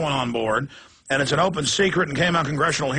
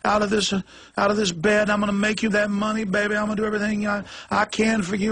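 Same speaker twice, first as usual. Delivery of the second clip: lightly voiced pleading woman, a bit higher; groveling prostitute; 5 semitones higher than usual. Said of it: "And she says".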